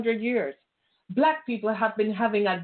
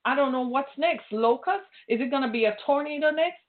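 mock complaining; 3 semitones higher than usual. Preacher mocking complacent churchgoers, whiny complaint. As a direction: mimic a fretful believer whining to God. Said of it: "Are you gonna complain and say".

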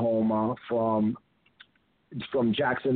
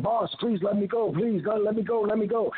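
high-pitched mock pleading; Coco; 8 semitones higher than usual. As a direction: imitate a scared man begging the boss. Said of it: "now Coco's getting scared".

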